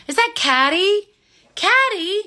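high, delighted "Is that Caddy?"; surprised recognition. Real, not acted. Host seeing a dear friend's name in the chat, surprised and high.

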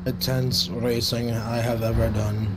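flat, lifeless delivery; monotone voice. Pretend. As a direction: say it with zero energy. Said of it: "in my monotone voice".

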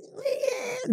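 high soft meek yeah; tiny submissive yes. Retold or imitated. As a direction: breathe it out meek and small. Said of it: "I was like".

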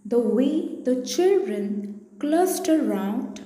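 measured poem recitation with pauses between phrases; poem reading. Acted. Teacher reading a poem to class five pupils, measured recitation. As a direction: read it out line by line, carefully phrased.

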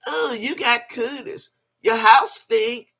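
lightly mimicking a kid's slow, drawn-out taunt; childish taunt. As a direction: tease like a little child, stretching the words. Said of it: "like a little children would say".

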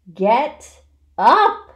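furious scream. A narrator's reading. Pig to lounging rat, furious scream. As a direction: scream it at full volume. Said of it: "screamed Wilbur".

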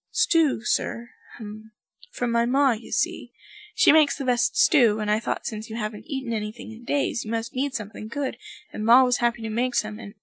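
fast, anxious babble; nervous rambling. Acted. Cloud babbling to his general about stew, nervous and fast. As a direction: rush the words out nervously.

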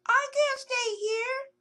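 despairing. Acted. Trapped squirrel despairs.

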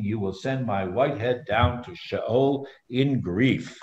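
measured read-aloud of a Bible story; scripture reading. A narrator's reading. Teacher reading Joseph's story to the group, scripture reading.

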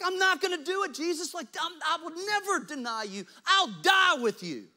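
high, loud promise; squeaky brag to Jesus; boastful Peter. Retold or imitated. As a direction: swear loyalty like a cocky friend. Peter's boast voiced again.

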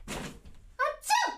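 high-pitched fake "achoo"; sharp, put-on sneeze; mock sneeze. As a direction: fake a sneeze to test the echo. Testing the echo outside with noises.

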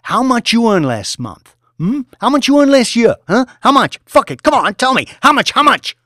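high, loud sneering tirade; mocking yell. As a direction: humiliate him at full volume. Boss threatening tied trader.

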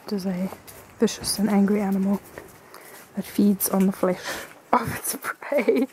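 hushed documentary narrator voice; nature documentary. Pretend. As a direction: narrate it, fading to whisper. Documentary, ending whispered.

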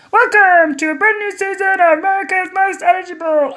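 high, loud game-show host welcome. Acted. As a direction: boom it out like a TV host. Host Carson welcomes viewers.

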